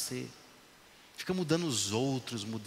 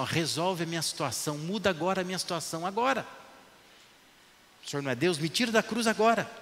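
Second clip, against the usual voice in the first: rising, louder demand, higher on agora; demanding shout; 5 semitones higher, 4 dB louder, faster than usual. Retold or imitated. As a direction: insist harder and harder, ending shouted. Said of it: "Um está dizendo assim".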